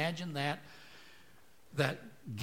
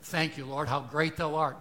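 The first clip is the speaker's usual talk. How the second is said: loud, hammed-up churchy exclamation opening on a big Oh; mock-reverent gush with a booming start; proper pious praise; 10 dB louder than usual. Shown as a demonstration. Preacher mimicking proper praise to mock it, hammed-up and loud. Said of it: "You should say".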